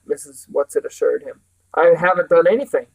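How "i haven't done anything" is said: put-on a louder, hot-headed boy's retort; shouted. Calvin shouting back at Mrs Whatsit, louder. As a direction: fire it back at her. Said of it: "Calvin shouted".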